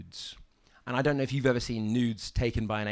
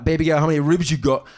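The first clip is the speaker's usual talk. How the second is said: flirty pickup line; 7 dB louder than usual.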